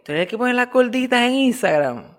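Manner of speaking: fan's voice. Retold or imitated.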